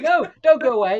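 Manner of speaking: high mock-pleading little girl; high girl's plea. Fan retelling the scene, in a high pleading girl voice. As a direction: squeak it out like a clingy child. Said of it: "And she's like".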